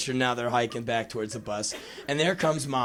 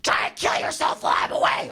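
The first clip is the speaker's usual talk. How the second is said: higher mock shout of a parting dig; sarcastic mom yell; 6 semitones higher than usual. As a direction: yell it as a dry parental joke. Mom's sarcastic parting shot.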